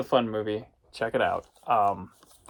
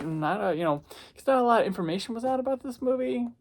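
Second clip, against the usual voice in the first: ordinary talk, nothing marked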